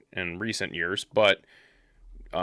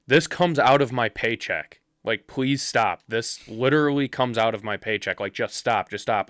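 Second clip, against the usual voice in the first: begging; 2 semitones higher, 4 dB louder than usual. Retold or imitated. Bus driver to the crowd wrecking his bus, begging. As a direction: imitate a man begging them to stop. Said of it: "he's begging them".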